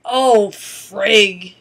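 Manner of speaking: loud mock curse from a little old lady; Martha swearing. Old lady cursing at the excluded coupon, loud. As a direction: blurt it out to the whole line. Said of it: "Just like that".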